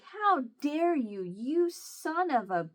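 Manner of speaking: reliving the fury of blaming her brother; retold anger. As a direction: spit out each accusation slowly. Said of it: "how mad I was".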